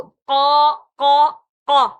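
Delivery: قا with a full throaty ق; heavy qaaf drill. Shown as a demonstration. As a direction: drill قا with a thick throat sound. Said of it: "اس طرح سے".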